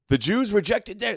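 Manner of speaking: mock Christian voice. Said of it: "the Christian's like".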